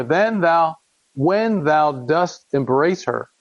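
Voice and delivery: measured, solemn reading of scripture; earnest King James reading voice. Acted. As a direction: read it like a father pleading with his son.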